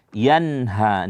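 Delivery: "Yanha" with a distinct n before the h; clear nun. Shown as a demonstration. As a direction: sound the n of "Yanha" clearly, then a breath h.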